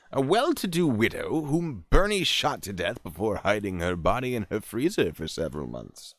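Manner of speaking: punchy true-crime reading voice; theatrical article read, drawing out the key names; dramatic story narration. Acted. Reads article.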